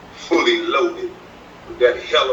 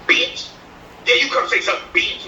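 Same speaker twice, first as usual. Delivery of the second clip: higher, mock girly taunt; hammed-up feminine imitation; effeminate mock voice; 10 semitones higher than usual. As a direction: camp it up like a sassy woman. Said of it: "don't sound like a man".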